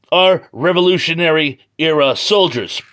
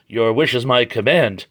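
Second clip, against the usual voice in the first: lightly voiced obedient robot; 5 semitones lower than usual. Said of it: "And the robot goes".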